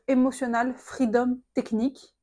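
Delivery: English words in a thick French accent; self-mocking French accent. Shown as a demonstration. Vlogger jokes about her French accent in English. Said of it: "avec mon super accent".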